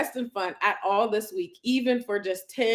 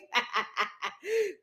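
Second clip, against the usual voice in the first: soft laugh; 8 semitones higher, 4 dB quieter than usual. Real, not acted. Laughing at emoji mix-up.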